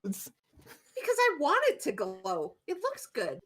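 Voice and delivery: lightly huffy witch, swooping in pitch; defensive retort. Acted. Wisp retorts, defending the glowing hat.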